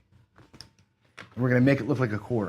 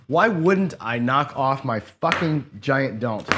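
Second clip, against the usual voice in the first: exasperated; much slower than usual. Real, not acted. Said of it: "I was about ready to go crazy".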